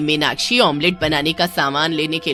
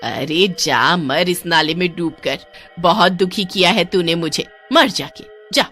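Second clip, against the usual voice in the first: spiteful curse; 2 semitones lower, 3 dB louder than usual. Acted. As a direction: spit the curse at her. Kaki curses the drowning woman. (नफ़रत भरी ऊँची बद्दुआ)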